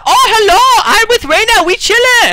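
put-on high, squeaky girly fan voice; imitating a fan. Mocking the fan who greeted him, high and squeaky. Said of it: "She's like".

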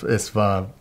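usual speaking voice

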